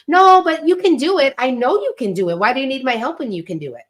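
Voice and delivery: the right way to tell her no, as pep talk; encouraging mom. Shown as a demonstration. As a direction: lift her up with a bright yes-you-can. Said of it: "I'm just like".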